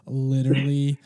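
half-laughing imitation of a burned stockholder; mock outraged employee. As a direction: ham up a furious employee while cracking up. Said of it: "a tweet from a Tesla employee that's like".

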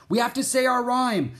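high, loud, urgent call; urgent cry. A narrator's reading. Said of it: "Jack cried".

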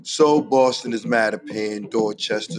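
rhythmic, punchy roll call of Boston places; spoken-word hype intro. Acted. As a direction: chant each neighborhood like a hometown anthem. Spoken-word hometown hype intro over music.

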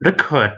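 "record" as a noun, REC-ord with a short "rek" first; stress on first syllable. Shown as a demonstration. Presenter shows contestants the noun reading, first-syllable stress. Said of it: "ถ้าเราเน้นคำหน้า".

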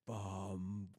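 low cartoon-character impression; Patrick. Doing an impression for friends to guess, low voice. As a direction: sound out one low, drawn note. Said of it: "I was doing Patrick".

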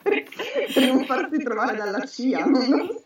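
chuckling through the words; laughing. Real, not acted. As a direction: laugh while saying it. Joking guess while laughing.

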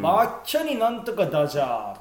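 lightly mimicked Izu dialect. Shown as a demonstration. Showing a friend the special Izu speech, light Izu dialect. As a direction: give a hint of rural Izu speech. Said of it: "伊豆とかはまただいぶ特殊で".

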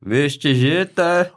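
high, drawn-out heckle; mock crowd shout. Pupil to old teacher from the crowd, mock shout. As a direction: call it out high and slow. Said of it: "já jsem z davu jsem vykřiknul".

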